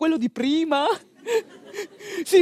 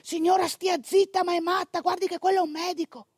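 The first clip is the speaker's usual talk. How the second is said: hushed scolding; 3 semitones higher, 6 dB quieter than usual. Retold or imitated. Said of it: "mi fa l'infermiera".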